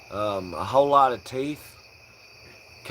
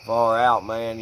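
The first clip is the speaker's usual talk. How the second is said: parody southern drawl; 4 dB louder than usual. Shown as a demonstration. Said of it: "That's how I sing, but in parody".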